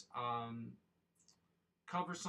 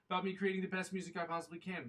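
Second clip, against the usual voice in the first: passionate; 8 semitones higher, 7 dB louder than usual. Real, not acted. Passionate climax.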